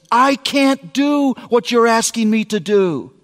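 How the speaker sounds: put-on a girl telling her dad she can't do it; upset daughter. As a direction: pour out the frustration like a tearful twelve-year-old. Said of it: "tears streaming down her face".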